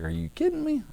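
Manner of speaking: high-pitched incredulous protest; mock disbelief. Preacher voicing Pilate answering the crowd, high incredulous protest. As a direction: squeak the question, then protest in amazement.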